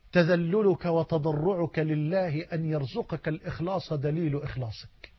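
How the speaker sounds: quiet, slow and low, each word laid down gently; soft slow statement. Shown as a demonstration. Preacher to his audience, first take, soft and slow. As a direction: say it softly first, letting it sink in. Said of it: "لا، تاني والله دي".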